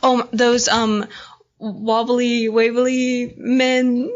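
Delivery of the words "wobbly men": laughing. Real, not acted. Laughing at a silly costume.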